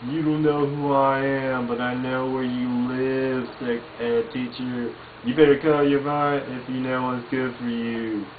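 lightly voiced Dale threatening the teacher; a hint of paranoid Dale menace; Dale Gribble impression. Dale threatens the sex ed teacher, lightly voiced. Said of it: "like saying".

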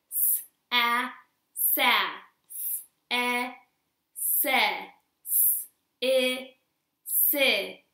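each letter and its blended syllable called out clearly, like "s, a, sa"; sounding out letters. Shown as a demonstration. Teacher drilling kindergartners on S blends. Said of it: "So let's go over it".

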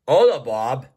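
a shifted, lightly Spanish-flavoured tool voice; Manny saying hi. Acted. Manny greeting Bob in a put-on voice. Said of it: "he wants to say hi to you".

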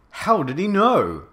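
high-pitched startled question; surprised. A narrator's reading. Girl asking about villain's knowledge, surprised. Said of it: "I asked in a surprised way".

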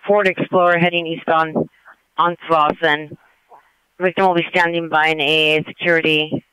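brisk, even call-out over the radio; police dispatcher. Real, not acted. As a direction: give the suspect details crisply.

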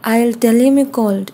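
slow, clear, each word set apart; slow model phrase. Shown as a demonstration. Teacher modeling a phone phrase for students, slow and clear. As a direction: spell it out slowly for learners. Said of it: "teacher models English phrase".

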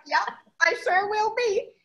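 high, laughing, playful yes; laughing reply. Pretend. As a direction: answer the cup with a giggle. Playful reply to coffee cup.

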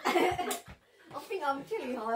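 very slow words through giggles; laughing. Real, not acted. Laughing after hot sauce.

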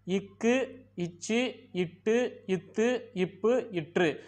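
"இக்கு, இச்சு, இட்டு, இத்து, இப்பு, இற்று" slowly, with hard stops; hard consonants. Shown as a demonstration. Teacher showing how the six sound hard, firm stops. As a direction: hit each doubled consonant firmly, one at a time. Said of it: "இந்த ஆறும் வன்மையா ஒலிக்குது".

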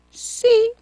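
high, loud yelp of a yes; forced yes. Acted. The cornered king admits it to the boy, a loud high yelp. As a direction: blurt it out, cornered.

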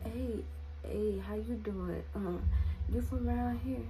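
soft, slow pickup line from a stranger; lightly voiced creep sliding in, softly; creepy man. Man at gas station approaching teen girl, soft creepy drawl. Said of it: "And he's like".

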